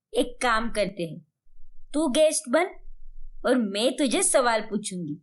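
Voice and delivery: a hint of an elder proposing a plan; keen mother-in-law. Mother-in-law proposes a talk-show game to daughter-in-law, lightly voiced, keen.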